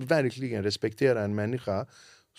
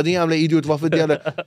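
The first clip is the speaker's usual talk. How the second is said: angry rant; 5 semitones higher, 6 dB louder than usual. Retold or imitated. Caller shouting at wrong number.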